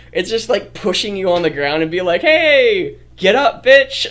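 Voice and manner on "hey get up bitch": high, loud laughing shout; loud high teasing yell while laughing; mock rough yell. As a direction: bark it playfully at a friend. Teasing pushed friend.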